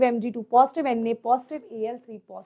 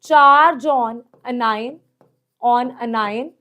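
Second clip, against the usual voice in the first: slow emphasis; 3 semitones lower, slower than usual. Shown as a demonstration. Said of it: "directly proportional to the charge".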